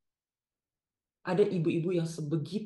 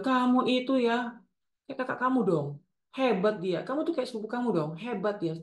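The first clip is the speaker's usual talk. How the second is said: higher-pitched reproachful nagging; comparing mother; 5 semitones higher than usual. Acted. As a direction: needle the child with unfavourable comparisons. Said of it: "ibu yang membandingkan kita". (ibu membanding-bandingkan anak)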